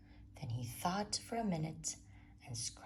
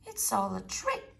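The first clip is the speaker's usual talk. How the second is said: bold declaration; 5 semitones higher, 8 dB louder than usual. Acted. Child declares boldly.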